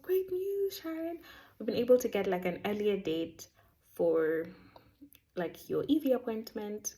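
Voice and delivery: high, bright good-news voice; excited. Retold or imitated. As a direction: deliver the news all excited. Colleague's good news quoted.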